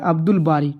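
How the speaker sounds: "अब्दुल बारी" with an audible l closing अब्दुल; laam pronounced. Shown as a demonstration. Teacher repeating an example for students, "अब्दुल बारी" with l pronounced. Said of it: "लाम का तलफ़ुज़ हुआ है".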